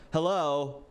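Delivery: high, slow, overly formal greeting; stiff nervous host. Retold or imitated. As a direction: play an awkward robot hostess welcoming a guest. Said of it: "and she was like".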